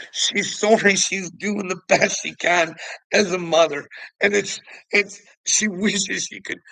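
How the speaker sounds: high, loud whiny mock of a tearful mother; mocking sappy mother. Mocking the mother's sappy video in a high whine. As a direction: sneer through her sob story.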